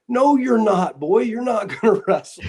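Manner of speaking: mock a father shutting it down; imitating a dismissive dad; dad's gruff refusal. Dad scoffing at son's plan.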